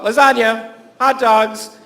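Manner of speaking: loud imitated tic outburst; yelling out. Boy at camp has to yell out foods, yelling out. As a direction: blurt each one out loudly, punched. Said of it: "He just had to yell out foods".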